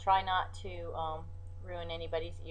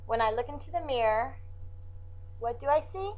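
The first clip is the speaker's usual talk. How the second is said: poem recital; 3 semitones higher than usual. Acted. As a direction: read it like a poem, with pauses.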